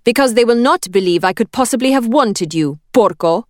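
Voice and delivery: put-on steady Italian accent. A narrator's reading. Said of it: "willing her voice to remain steady".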